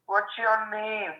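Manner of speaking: high slow singsong mock voice; exaggerated cartoon intonation. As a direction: drag it out in a goofy sing-song. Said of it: "Why are you talking like that?".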